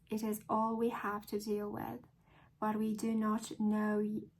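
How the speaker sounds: measured read-aloud in a tentative British accent; attempted British accent. Shown as a demonstration. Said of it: "I'm gonna try to read a book in British accent".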